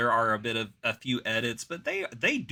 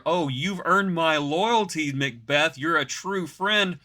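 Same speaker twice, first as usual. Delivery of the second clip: a slow, louder sarcastic gush; mock king; 4 semitones higher, 5 dB louder, slower than usual. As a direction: gush with fake sincerity. King mocked as false friend.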